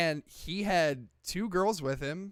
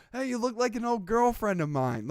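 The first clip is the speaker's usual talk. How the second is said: lightly imitated flirty line, pitched up; Jack Nicholson; 5 semitones higher than usual. Retelling the actor teasing an actress, lightly imitated. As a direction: toss it out as a mock come-on. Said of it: "like that".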